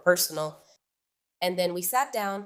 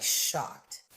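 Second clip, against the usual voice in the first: whispered shock; 6 semitones lower, 5 dB quieter than usual. Retold or imitated. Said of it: "I was, like".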